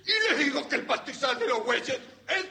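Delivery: high, worked-up shouting. Acted. Landowner insisting on his meadow, shouting. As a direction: build to a yelled final word. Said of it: "qué son esos gritos".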